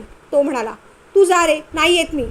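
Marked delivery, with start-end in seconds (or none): 1.1-2.3 angry retort. Acted. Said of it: "तीही रागारागाने म्हणाली".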